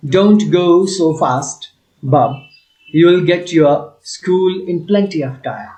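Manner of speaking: slow, deliberate read-aloud of the English passage. Shown as a demonstration. Teacher reading the story to students, slow and clear. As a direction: read it out slowly for the class.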